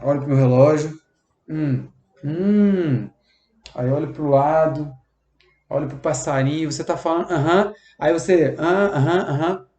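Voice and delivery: absent, bored hums while looking away; distracted listening. Shown as a demonstration. Listener ignoring a colleague, bored distracted hums. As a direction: fake attention with lazy ahams. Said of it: "e eu tô bem assim".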